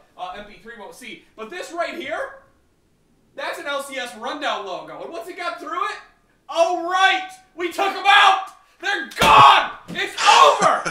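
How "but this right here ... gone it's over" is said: shouting, higher and louder. Showing off a logo on a podcast, yelling. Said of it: "I'm gonna yell about this".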